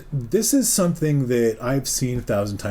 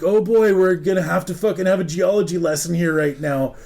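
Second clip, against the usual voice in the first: exasperated sigh of resignation; 5 semitones higher, 4 dB louder than usual. Retold or imitated. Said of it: "and I'm just like".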